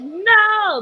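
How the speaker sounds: panicked cry. Retold or imitated. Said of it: "and I'm like".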